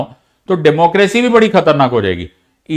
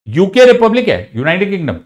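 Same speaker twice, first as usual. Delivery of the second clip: deliberate wrong claim; 4 semitones higher than usual. Shown as a demonstration. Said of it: "अभी अभी आपने बोला कि यूके रिपब्लिक नहीं है".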